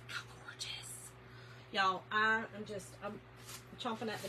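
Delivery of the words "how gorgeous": hushed whisper of admiration; awed whisper. Real, not acted. Admiring florals for viewers, whispered awe. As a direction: breathe it out in awe.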